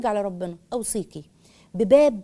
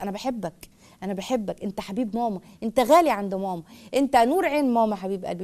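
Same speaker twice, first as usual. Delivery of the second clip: tender mother's words. Shown as a demonstration. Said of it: "واكثري من عبارات الحب والحنان".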